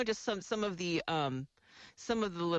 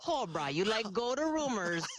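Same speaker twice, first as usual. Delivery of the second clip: bad Pidgin; 4 semitones higher than usual. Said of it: "it was like".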